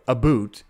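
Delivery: "a boot" with a long oo vowel; exaggerated Canadian "aboot". Shown as a demonstration. Streamer denying the Canadian stereotype, "a boot" with oo. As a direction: say about as "a boot". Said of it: "But I don't say a".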